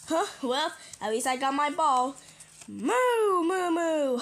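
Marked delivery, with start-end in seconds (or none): 2.7-4.2 high-starting gleeful moos; playful pretend cow; happy cow moo. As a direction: moo merrily over your ball. Cow happy to have ball.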